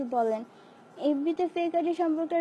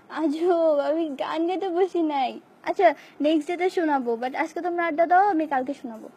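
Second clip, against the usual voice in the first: annoyed protest; 3 semitones higher, 5 dB louder than usual. Real, not acted. To fans pushing for a song, annoyed and louder. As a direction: push back hard but promise later. Refusing fans' song requests again.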